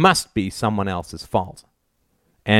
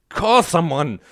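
exasperated order; 8 semitones higher, slower than usual. A narrator's reading. Mother snaps at daughter, thrusting purse.

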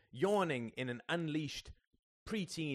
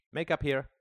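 louder call across room; 6 semitones higher, 8 dB louder than usual. A narrator's reading. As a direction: summon her loudly. Al calls out.

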